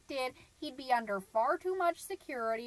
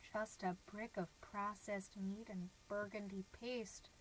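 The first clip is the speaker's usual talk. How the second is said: bleak brooding; 2 semitones lower, 5 dB quieter than usual. Acted. Mom dwelling on husband's dinner of cocktail weenies, bleak brooding. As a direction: sink into a soft, monotone dark reverie.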